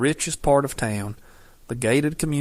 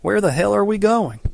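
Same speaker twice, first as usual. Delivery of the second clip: shouting; 9 semitones higher, 5 dB louder than usual. A narrator's reading. Furious girl in swerving car.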